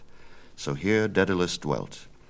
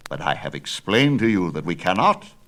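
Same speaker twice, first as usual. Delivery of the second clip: put-on louder, firm old craftsman, fearful of the king; insist, louder, that he must stay; old Daedalus; 5 dB louder than usual. Father explains to son why he must stay, louder.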